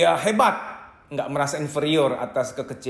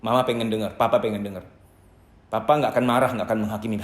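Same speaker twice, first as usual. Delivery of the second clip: gentle parent; 5 semitones lower, faster than usual. Shown as a demonstration. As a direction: coax the child to open up, tenderly. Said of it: "orang tua ngomong kepada anaknya".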